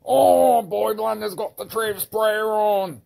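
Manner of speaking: high, loud urgent cheering; excited shout. Acted. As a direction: egg the sidekick on. Hero urges sidekick in fight.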